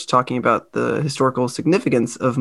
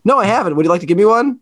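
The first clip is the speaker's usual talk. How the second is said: mock serious; 6 semitones higher, faster than usual. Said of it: "very seriously".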